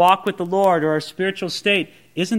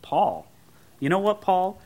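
smug Corinthians; 7 semitones higher than usual. Retold or imitated. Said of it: "the Corinthians look at him and they go".

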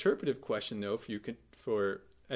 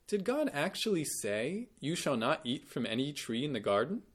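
incredulous; 2 semitones higher than usual. Retold or imitated. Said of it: "or maybe incredulous".

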